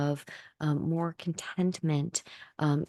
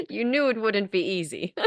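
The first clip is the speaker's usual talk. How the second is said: seance medium; 2 semitones higher, 3 dB louder than usual. Acted. Channeled entity speaking through the speaker.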